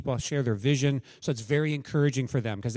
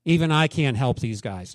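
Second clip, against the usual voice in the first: slow, louder, mildly hammed-up dismay; mock exasperated God; 3 semitones lower, 4 dB louder, slower than usual. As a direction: sigh over hopeless disciples, playfully. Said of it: "God doesn't look at ... and just say".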